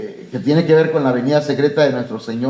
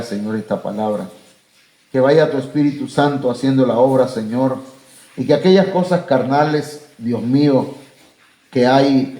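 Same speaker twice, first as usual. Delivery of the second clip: closing prayer. Acted. Pastor praying for his congregation at the end of the service, in an earnest prayer voice.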